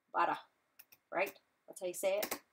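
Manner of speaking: New York butter, R dropped; attempted New York accent. Shown as a demonstration. Crafter showing viewers how butter is said, attempted New York accent. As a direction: try butter like a New Yorker. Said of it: "trying to have a New York accent".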